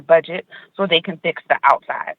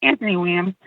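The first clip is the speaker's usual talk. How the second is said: breathless from walking to the car; winded, catching breath between phrases; 3 semitones higher than usual. Real, not acted. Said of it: "Excuse me being out of breath".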